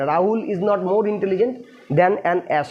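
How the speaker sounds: very slow, word by word dictation. Shown as a demonstration. Teacher dictating the English sentence to students, very slow. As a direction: spell it out slowly for students to copy down. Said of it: "teacher reads English sentence aloud".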